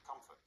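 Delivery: "comfort" with COM stressed, the end light; stress on root syllable. Shown as a demonstration. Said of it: "stress is in the same place as the root word".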